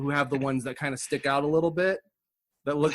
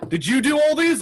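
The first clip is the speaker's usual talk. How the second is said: higher, louder admiring question; mock admirer; 9 semitones higher, 4 dB louder than usual. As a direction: play an impressed gallery visitor. Acting out an admirer.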